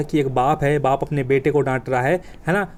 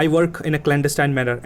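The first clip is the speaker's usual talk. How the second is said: slow show-off phrasing; much slower than usual. Shown as a demonstration. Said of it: "ऐसा बोलना".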